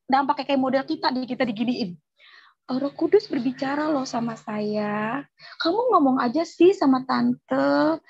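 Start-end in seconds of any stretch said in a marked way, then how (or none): 2.7-8.0 mimicking aunt.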